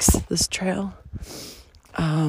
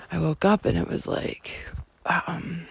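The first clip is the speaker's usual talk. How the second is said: whispering; 4 dB quieter than usual. Real, not acted. Confiding about panic.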